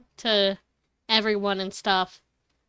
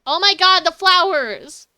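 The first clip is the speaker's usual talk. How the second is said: sudden loud panic; panicked exclamation; 8 semitones higher, 9 dB louder than usual. Real, not acted. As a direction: yelp it out in alarm.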